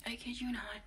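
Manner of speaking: breathy confiding whisper. Real, not acted. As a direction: whisper it so you don't wake anyone.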